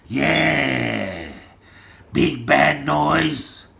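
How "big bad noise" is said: slow, deliberate announcement; slow name-drop. Real, not acted. Man calling out big bad noise, slow. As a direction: say it slowly, each word separate. First take, then repeated stretched.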